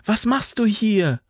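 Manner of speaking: high, urgent called question; calling out. A narrator's reading. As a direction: call over in surprise, volume held back. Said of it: "rief sie dem jungen Soldaten zu".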